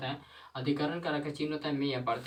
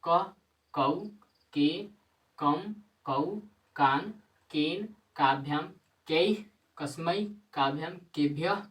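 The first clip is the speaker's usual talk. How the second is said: louder rote chant of the forms, each word punched; louder recitation; 2 semitones higher, 5 dB louder than usual. Shown as a demonstration. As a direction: drill it loudly so the class remembers. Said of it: "एक बार और देखिए". (ज़ोर से शब्द-रूप का पाठ)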